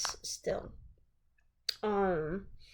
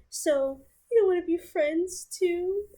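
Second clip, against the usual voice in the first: voicing the ex higher, apologetic and anxious; pleading ex; 6 semitones higher than usual. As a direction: beg her not to leave, rushed and panicky. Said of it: "He said".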